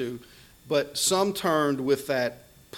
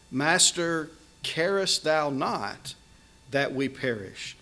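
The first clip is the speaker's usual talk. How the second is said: slow, reproachful question to the Master; rebuking; 2 semitones higher, slower than usual. Retold or imitated. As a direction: stretch it out as a reproach. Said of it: "There's rebuke in those words".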